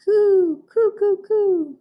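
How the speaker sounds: high, hooting coos; dove coo. Shown as a demonstration.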